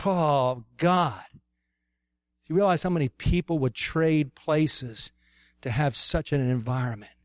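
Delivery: earnest spoken prayer over a group; heartfelt pastoral prayer, swelling in gratitude and settling back. Real, not acted. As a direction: pray aloud from the heart, with pauses. Let's pray.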